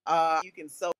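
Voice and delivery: choppy, breaking-up call audio; bad connection. Real, not acted. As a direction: voice cutting in and out online. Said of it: "your connection is bad".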